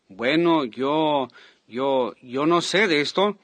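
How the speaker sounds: halting, drawn-out stammer; nervous hesitation. Retold or imitated. Embarrassed preacher stands before the crowd at the microphone, nervously hesitating. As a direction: hesitate and restart, unsure of yourself. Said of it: "movía mis manos nerviosamente".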